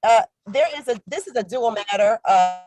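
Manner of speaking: words dropping out over a call; buzzy glitchy call audio. Real, not acted. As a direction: voice breaking up on a bad connection. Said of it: "you're breaking up really badly".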